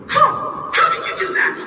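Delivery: high, astonished cat voice; Donut demanding. Acted. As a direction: demand the answer, high and sharp. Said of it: "Donut demanded".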